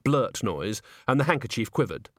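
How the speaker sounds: usual speaking voice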